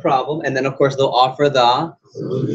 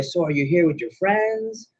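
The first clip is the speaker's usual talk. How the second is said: higher, slow mock-casual question; probing suitor; 5 semitones higher, 4 dB quieter, slower than usual. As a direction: stretch it out like a fishing pick-up line. Acting the suitor fishing for information.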